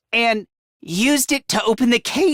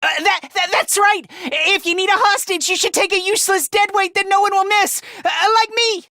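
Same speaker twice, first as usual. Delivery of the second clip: nervous offer; 4 semitones higher, faster than usual. Acted. Offers self as hostage.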